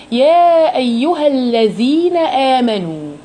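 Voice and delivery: slow melodic chanted recitation; Quran recitation. Shown as a demonstration. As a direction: recite it drawn out and even. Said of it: "آدي أول كلمة".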